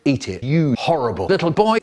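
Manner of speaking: a lightly voiced cross mum; mum's voice. Mum ordering her son, mild mock scold. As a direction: play the nagging mum, mildly. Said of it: "my mum says".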